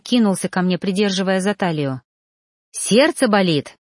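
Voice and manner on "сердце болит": slow, smiling question; lightly voiced smiling concern; happily smiling. A narrator's reading. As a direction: ask it grinning with joy. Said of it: "счастливо улыбаясь".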